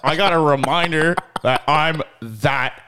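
laughing, slow mock-cool brag; trying too hard cool. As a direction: play it cool but crack up. Boasting about being that dude.

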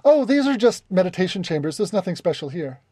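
mildly nervous, too-quick reassurance. Acted. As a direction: cover up a secret with nervous innocence. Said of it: "very nervously says".

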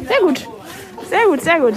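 high, loud and enthusiastic; excited. Real, not acted. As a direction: gush with delight. Enthusiastic market verdict.

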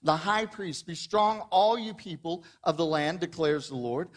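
measured, solemn Bible reading; scripture reading. Acted. Pastor reads Haggai to the church, solemn reading. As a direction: read the prophet's words aloud to the congregation.

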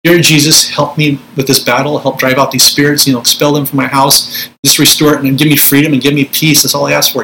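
gentle, pleading prayer to Jesus, only lightly set apart; petition prayer. Shown as a demonstration. Minister demonstrating a petitioning prayer to viewers, mild pleading. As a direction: ask humbly, like a mild request. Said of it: "There's petition prayer posture".

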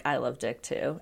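low, soft retold agreement; Snooki. Recapping a housemate's confession to co-hosts, low and understated. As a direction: quote it quietly and low.

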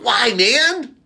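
high, loud pleading whys; exasperated why. Real, not acted. Fan asking why Archie takes the deal, high and loud. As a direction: beg the show for an answer.

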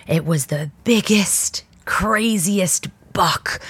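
whispered, slow and drawn out; hushed whisper. Real, not acted. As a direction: breathe it like a secret. Describing the huge deer.

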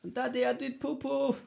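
put-on high child's voice in a terrible French accent. A kid calling to his daddy from the toilet, in a high bad French accent. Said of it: "Why is his kid French?".

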